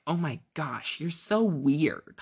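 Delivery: drawn-out slow mock jeer; mimicking mockery. Podcaster mimicking listeners mocking a cheese hater, slow jeer. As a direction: sneer it slowly like a snobby listener. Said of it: "That was me mimicking you guys".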